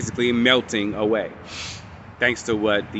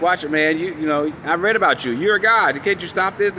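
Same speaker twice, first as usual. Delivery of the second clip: higher, rising desperate plea; pleading with a god; 6 semitones higher than usual. Retold or imitated. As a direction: beg the Watcher for help. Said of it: "he's like".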